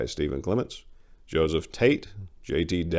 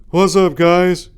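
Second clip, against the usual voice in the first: slow lumbering greeting; 12 semitones higher, 12 dB louder, slower than usual. Acted. Jerome arrives.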